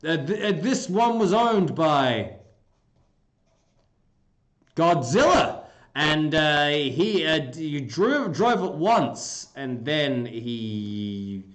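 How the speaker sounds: mock sales patter with slow stalling; a hint of a pushy car dealer; used car salesman. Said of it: "I should be a used car salesman. I'll be like".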